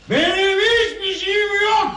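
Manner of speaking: high, tearful outburst; anguished yell. Acted. Drunk son telling his mother he has nothing, anguished yell. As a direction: cry it out high at the top.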